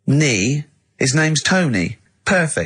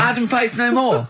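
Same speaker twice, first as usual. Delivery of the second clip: high, giggling echo; laughing mock repeat; 10 semitones higher than usual. Real, not acted. Host laughing at the daft answer.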